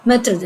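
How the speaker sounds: "method" said as French maître d'; French pronunciation. Shown as a demonstration. Teacher gives the short French term, French pronunciation. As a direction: say "method" the French way, as "metr-duh". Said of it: "it's a French pronunciation".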